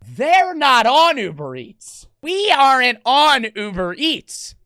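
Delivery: slow, sing-song mocking of the shop worker; mocking staff voice. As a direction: drag it out like a know-it-all clerk.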